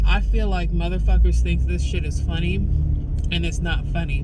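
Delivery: loud, fed-up rant, barely holding it together; real anger. Real, not acted. Vlogger venting to camera, loud and furious. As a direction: let the fury spill out at people who won't listen. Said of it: "Anger is better than mania".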